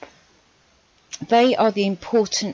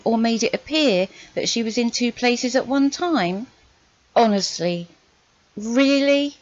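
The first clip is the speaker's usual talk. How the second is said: real irritation, raised and incredulous; increasingly exasperated, challenging questions; irate; 4 semitones higher than usual. Real, not acted. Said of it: "I'm getting really, really irate".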